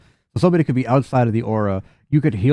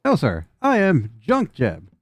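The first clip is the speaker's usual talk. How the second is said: slow, higher robot voice; mild robot voice; robot introduction; 5 semitones higher, slower than usual. Acted. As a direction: announce yourself like a stiff machine. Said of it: "Period appropriate".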